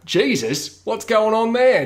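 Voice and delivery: startled, rising exclamation; shocked reaction. Retold or imitated. People seeing the name react in surprise. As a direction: blurt it out in alarm.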